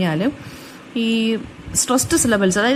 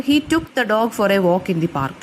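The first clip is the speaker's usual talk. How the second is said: each word spelled out slowly, content words leaned on; slow stressed example; much slower than usual. Shown as a demonstration. Teacher reading a slow example sentence for students. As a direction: read it slowly, weighting the key words. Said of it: "For example".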